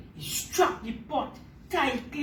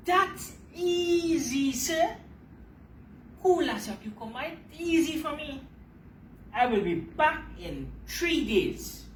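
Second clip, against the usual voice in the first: higher, cocky boastful spider; 3 semitones higher than usual. Acted. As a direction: brush off the task with swagger. Anansi answers Sky God cockily.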